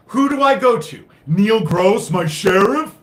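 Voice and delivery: loud, high, exasperated shout of a question; yelling out in real frustration; angry outburst. Real, not acted. Angry rant about sheriff.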